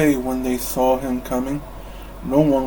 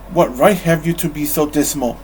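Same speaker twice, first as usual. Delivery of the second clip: sharp retort. Acted. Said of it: "Fred shot back".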